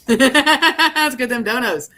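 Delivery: slow, loud and laughing; drawn-out laughing rally cry; laughing cheer. Real, not acted. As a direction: crack up while cheering it on. Joking cheer after a laugh.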